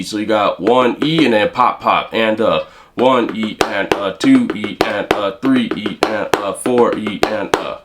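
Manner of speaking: even count "one E and uh", leaning on each opening number; counting doubles. Shown as a demonstration. Teacher counts the reversed sticking aloud. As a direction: count each beat cleanly. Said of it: "you can reverse it".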